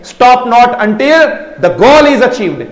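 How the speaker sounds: slow, solemn quotation; a teacher quoting Vivekananda slowly. Retold or imitated. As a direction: quote the saying slowly, with weight. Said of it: "स्वामी विवेकानंदा ने भी कहा है".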